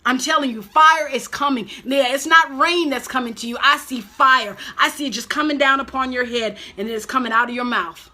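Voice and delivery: insistent preacher's declaration; fervent preaching. Acted. Preacher seeing fire fall on the viewer, fervent. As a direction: proclaim it to the viewer. Preaching resumes after quote.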